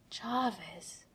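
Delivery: breathed softly. Acted. Tony breathing his AI's name in soft awe. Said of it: "he breathed out, soft".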